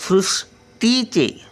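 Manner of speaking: सृष्टीचे slow and high, half ष before टी; slow pronunciation demo. Shown as a demonstration. Grandmother showing children how to say सृष्टीचे, slowly. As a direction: draw out सृष्टीचे, joined ष clear. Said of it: "शचा उच्चार अर्धा".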